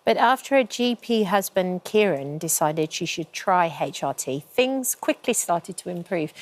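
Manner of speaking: measured scripted guest introduction; formal presenter read, easing down at phrase ends; TV presenter link. Acted. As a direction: read the story intro in a composed studio voice. Presenter reads segment introduction.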